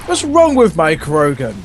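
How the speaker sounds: customer complaint tone. Acted. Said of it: "like it's a self-repair service".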